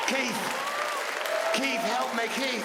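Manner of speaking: high, feeble call for help; hammed-up pitiful plea, pitched high; stricken singer. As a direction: cry out as if fallen and helpless. The fallen singer calls to Keith.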